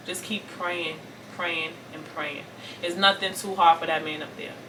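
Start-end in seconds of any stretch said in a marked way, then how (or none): 0.1-2.4 soft, slowing reassurance; hushed, unhurried urging; gentle encouragement. Real, not acted. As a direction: comfort quietly, letting each repeat settle. Encouraging hurting daughters to keep praying.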